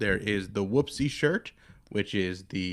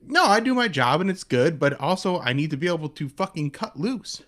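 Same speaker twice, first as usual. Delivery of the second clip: carefree European voice; 6 semitones higher than usual. Retold or imitated. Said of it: "people are like".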